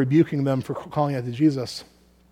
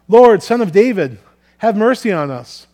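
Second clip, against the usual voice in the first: raised-voice call for mercy, drawn from the scripture; shouted plea; 5 semitones higher, 8 dB louder than usual. A narrator's reading. Blind men calling to Jesus from the roadside, shouted plea. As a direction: cry out loudly, pitched up high. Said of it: "they shouted".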